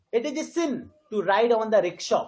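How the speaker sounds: slow reading with "sin", "ride" and "rickshaw" stressed; teacher's slow model line, pausing after "sin"; stressed content words. Shown as a demonstration. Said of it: "sin are getting emphasized".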